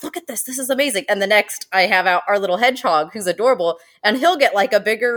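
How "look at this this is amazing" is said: mock amazement. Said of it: "which I'm like".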